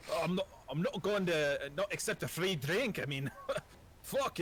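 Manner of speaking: wry dwarf. Acted. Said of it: "does the Dwayne "The Rock" Johnson".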